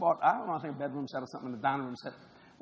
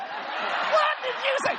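mock shock; much slower than usual. Retold shocked exchange.

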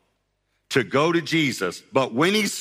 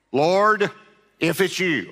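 Peter's doubt; 6 semitones higher, 3 dB louder, slower than usual. Acted. Peter voiced again.

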